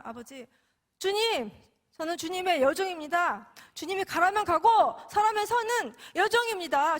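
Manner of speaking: fervent vow prayer. Retold or imitated. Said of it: "그렇게 서원을 하게 된 거예요".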